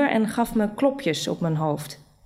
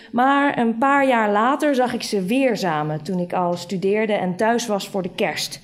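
plain reading voice

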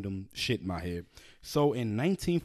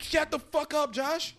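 exasperated shout; 14 semitones higher, slower than usual. Real, not acted. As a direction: snap at him at full volume, fed up. Cohost keeps interrupting, host explodes.

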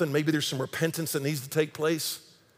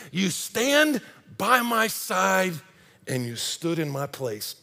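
slow reverent; much slower than usual. Retold or imitated. Savouring song lyric.

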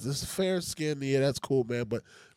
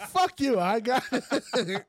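mock retort; 8 semitones higher, much slower than usual. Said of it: "I'm like".

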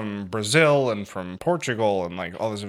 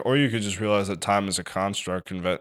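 John; 4 semitones lower, 5 dB quieter than usual. Retold or imitated. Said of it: "John, always the forever optimist".

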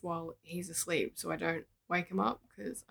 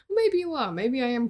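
laughing; 5 semitones higher, 5 dB louder than usual. Real, not acted. Joking about quality content.

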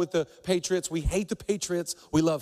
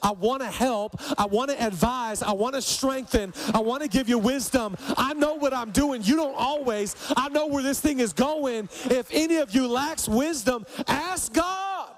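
a bit higher and pressing, God pleading to help; eager God; 6 semitones higher than usual. Pretend. God asking his people to let him help, lightly eager. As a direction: insist warmly you know the way. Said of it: "God this year just being like".

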